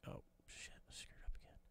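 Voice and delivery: unvoiced, soft self-scolding; whispered curse. Real, not acted. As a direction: breathe it out under your breath. Mistake muttered to himself.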